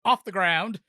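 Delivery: building ring intro, ending in a drawn-out sung name; WrestleMania announcer. Acted. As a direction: ramp up the hype to the champion's name. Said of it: "in my best WrestleMania announcer voice".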